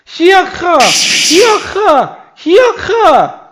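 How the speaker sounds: high, loud wrestler shouts of hiakra; Hawlucha battle cry. Acted. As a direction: hype up the crowd like a pro wrestler. Hawlucha shop owner cries and pitches.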